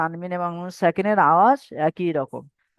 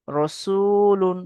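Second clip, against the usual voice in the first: slow, long-held chanted reading of the word; drawn-out recitation; 2 semitones higher, much slower than usual. Shown as a demonstration. Teacher chanting a word slowly for students. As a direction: stretch each syllable like Quran recitation. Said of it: "তারপর উচ্চারণ করে দিচ্ছি".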